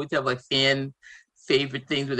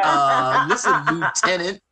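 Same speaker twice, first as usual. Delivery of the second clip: stern commander; 4 dB louder, slower than usual. Retold or imitated. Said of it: "he would be like".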